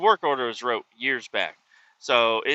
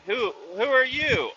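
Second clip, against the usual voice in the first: mock guard voice; 8 semitones higher than usual. Mocking the guard's reply.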